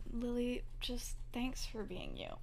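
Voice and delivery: soft, understated acted sincerity; lightly acted heartfelt softness; sincere thanks. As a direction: thank her quietly, as the husband. Husband's heartfelt thanks, retold.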